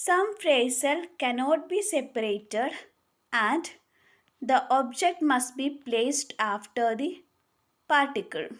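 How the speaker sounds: very slow, word by word, for note-taking; slow dictation. Shown as a demonstration. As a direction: spell the rule out slowly so students can write it. Dictating the rule slowly.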